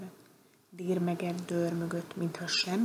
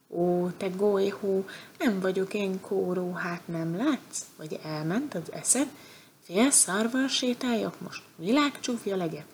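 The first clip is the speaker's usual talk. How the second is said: angry goat; 3 dB louder than usual. Acted. Goat scolds the bear for breaking its horn, angry and louder. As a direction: rail at the clumsy bear over the broken horn. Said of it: "Támadt rá dühösen".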